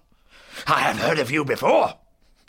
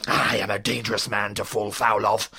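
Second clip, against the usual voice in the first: low, dangerous warning; dark villain's menace; menacing threat; 8 semitones lower, 4 dB louder than usual. Acted. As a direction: threaten in a deep, heavy voice.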